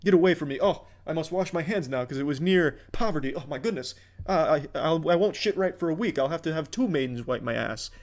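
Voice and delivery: lightly voiced snooty rich villain; a hint of a sneering aristocrat; mustache twirling villain. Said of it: "cartoonishly mustache-twirling evil villains".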